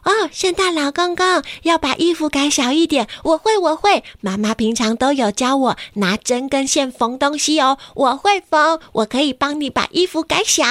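put-on high, eager little girl voice. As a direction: play a keen little girl offering help. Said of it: "隔壁的小红也说".

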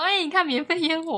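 put-on a child pointing out the neighbors' fireworks; mock chatty remark. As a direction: nudge a friend, look over there. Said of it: "我们就说".

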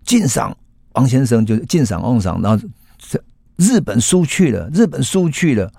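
音调明显偏高的激动诉说; 抑制不住地激动报信. Acted. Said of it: "他居然很激动的说". (佐佐木激动地告诉王先生日本输了，音调很高)

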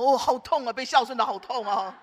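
lightly hammed-up groaning complaint; mock pained wail. Dad seeing his scratched car, mock pained. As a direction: moan as if it hurts, playfully. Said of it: "那个爸爸说".

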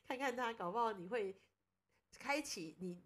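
light teasing nudge to her husband; joking suggestion. Retold or imitated. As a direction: tease him half-seriously about visiting the god. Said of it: "开玩笑跟他说".

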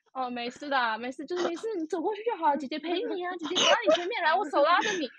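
retold comforting. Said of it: "我一开始还会安慰他说".

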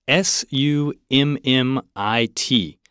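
slow letter by letter spelling; slow dictation spelling. Shown as a demonstration. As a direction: spell each letter out slowly and clearly. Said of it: "帮我们拼一下".

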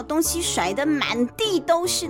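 ordinary delivery

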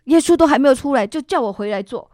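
griping to her husband, getting worked up; grumbling complaint. Retold or imitated. Complaining to her husband about church, rising indignation. 跟我老公一直碎碎念.

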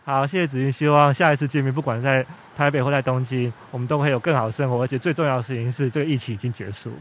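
muffled behind a mask; through a face mask. Real, not acted. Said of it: "我们现在是戴着口罩录音的哦". (戴着口罩说话)

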